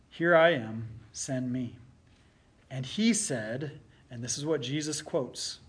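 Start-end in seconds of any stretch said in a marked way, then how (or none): 2.7-3.8 scripture reading. Acted. Pastor reading Isaiah's vision aloud to the congregation, solemn scripture reading. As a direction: read it like the prophet's vision unfolding.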